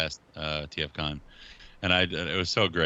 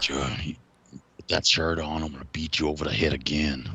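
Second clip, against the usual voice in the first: mock threat in a put-on voice; lightly imitated threat, pitched slightly down; Josh Fisher; 4 semitones lower than usual. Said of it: "He talks like that all the time".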